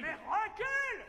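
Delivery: warning shout. Acted.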